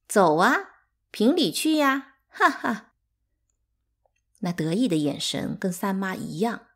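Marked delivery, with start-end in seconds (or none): 0.1-2.9 high, loud scornful dare; cold taunt. A narrator's reading. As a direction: scorn them with a mocking laugh. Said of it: "走时冷冷地说". (冷冷地嘲讽)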